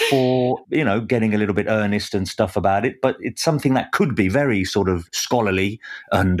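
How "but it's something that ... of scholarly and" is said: lightly voiced scholarly professor; a hint of a learned academic tone. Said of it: "he says in his scholarly voice".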